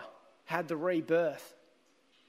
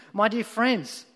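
louder, higher pulpit voice; lay preacher; 4 semitones higher, 5 dB louder than usual. Acted. Lay preacher expounding his simple text to twelve people, raised preaching voice. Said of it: "And then the preacher continued".

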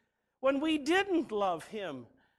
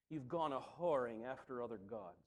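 prophet's rebuke; 10 semitones lower, 10 dB quieter than usual. Acted. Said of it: "the prophets saying things like".

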